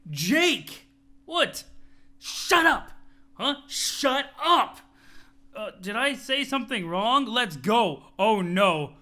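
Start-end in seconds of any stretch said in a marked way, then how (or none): 0.1-0.9 calling out sharply. Acted. Jane yelling at Jake in the game. 1.3-1.6 startled. Acted. Jake startled by Jane's yell. 2.2-2.9 loud, higher snapping shout; a sharp, high yell of shut up; angry shout. Acted. Jane snapping at Jake. 3.7-4.8 a loud, high shut up in a put-on voice; loud put-on snap; angry shout. Jane repeats her angry order.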